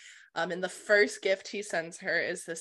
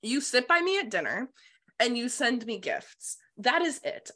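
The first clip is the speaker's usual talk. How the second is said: higher-pitched, lightly indignant retort; snapping; 4 semitones higher than usual. Retold or imitated. Her telling the king what their deal is, snapping. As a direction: lay it down firmly, mildly exasperated. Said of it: "she kinda snaps at him".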